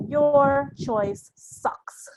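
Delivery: slow, drawn-out mock contempt; dismissive. Young sound designers dismissing a choice, slow mock scorn. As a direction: stretch every word like a sneer. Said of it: "They're just like".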